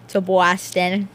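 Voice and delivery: slowly, through chewing gum. Real, not acted. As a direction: say it slowly, gum in your mouth. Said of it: "Sorry, I'm chewing gum".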